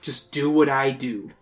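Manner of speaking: steady voice. Acted. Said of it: "making your voice as steady as possible".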